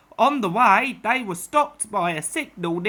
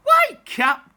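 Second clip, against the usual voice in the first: rousing call; 12 semitones higher, 5 dB louder than usual. Acted. Cricketers wake the old car.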